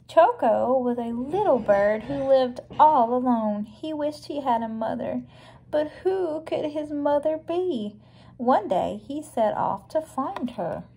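clear, measured picture-book reading; read-aloud storybook. A narrator's reading. Reading Choco's story to a young listener, storybook narration.

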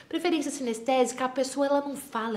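normal talking voice

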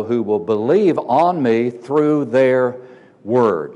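"word" set apart after a short pause; slow build, then land deliberately on "word"; measured reading that pauses before "word"; stress on word. Shown as a demonstration. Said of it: "Notice the emphasis on the word there".

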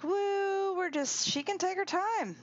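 high, carefree player voice; high playful imitation of a racer; voicing Kitten. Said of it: "Kitten's like".

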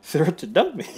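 flat bitter repeat. Acted. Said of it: "I don't know why I said it like that".

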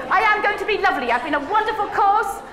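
mock bright resolve; mock cheerful optimism. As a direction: play the naively upbeat teacher.

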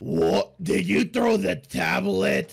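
slow, loud scolding question; angry shout. Acted. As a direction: demand an answer from your son. Dad scolds son.

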